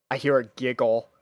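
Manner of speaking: plain reading voice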